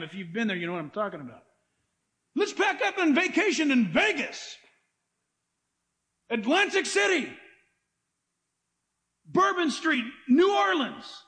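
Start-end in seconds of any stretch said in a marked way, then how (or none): 2.3-11.2 rising mock enthusiasm, ending in a shout; mock excited vacation pitch. Preacher mocks the sin-city vacation, building to a shout. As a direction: hype up the sinful trip, building to a shout.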